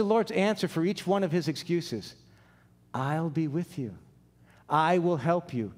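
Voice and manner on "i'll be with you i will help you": slow, lightly acted promise; calm reassurance. The Lord answers Moses' excuses, slow calm reassurance. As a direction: reassure slowly and steadily.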